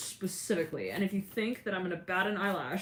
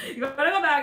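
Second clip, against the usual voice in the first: louder, higher heated repeat of the demand; heated insistence; 7 semitones higher, 9 dB louder than usual. Retold or imitated. Friend heatedly insisting the magician go back, louder and higher. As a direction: push it harder the second time, mock heated. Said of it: "all heated into the beef of the conversation".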